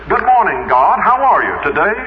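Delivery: lightly voiced breezy greeting to the Lord; chirpy greeting to God. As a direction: mimic a preacher cheerily greeting God. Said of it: "he said to the Lord this".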